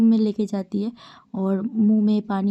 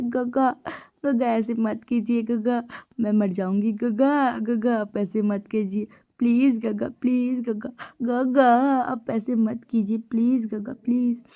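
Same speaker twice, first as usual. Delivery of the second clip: put-on slow, tearful begging in a changed childlike voice; crying plea; slower than usual. Younger brother clinging to his gege, slow tearful begging. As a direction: sob out the pleading to big brother. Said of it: "तुम ऐसे रो क्यों रहे हो".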